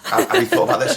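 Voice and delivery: squeaky condescending question; mock the director sweetly; high mock director voice. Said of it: "they might go".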